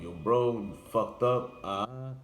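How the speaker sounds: retold angry outburst, loud and high; mock angry friend. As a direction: play the friend losing it at you. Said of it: "He, he lost it".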